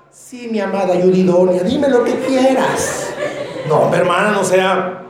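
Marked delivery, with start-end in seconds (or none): 0.1-3.1 mock submissive wife.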